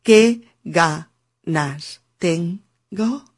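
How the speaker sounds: muy lento, palabra por palabra, sin enlazar; "Qué ganas tengo" separando cada palabra, muy despacio; sin enlaces. Shown as a demonstration. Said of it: "yo no digo". (así no: qué ganas tengo sin enlaces)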